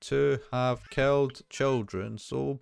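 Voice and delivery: slow, cold robotic monotone; child doll monotone. Acted. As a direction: read it like a creepy doll, slowly. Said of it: "slowly repeats several phrases in a cold, methodical, and almost robotic monotone".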